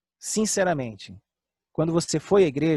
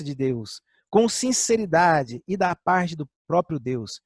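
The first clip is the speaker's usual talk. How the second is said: scripture reading; slower than usual. Acted. Reading scripture aloud to church.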